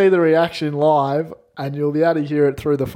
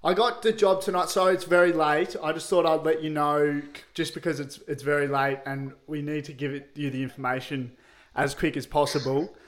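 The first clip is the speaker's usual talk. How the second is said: put-on country accent; 4 dB quieter than usual. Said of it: "The accent was atrocious".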